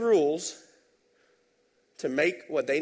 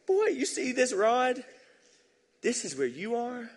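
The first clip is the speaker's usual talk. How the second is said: threatening Pilate; 10 semitones higher, slower than usual. Retold or imitated. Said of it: "In other words".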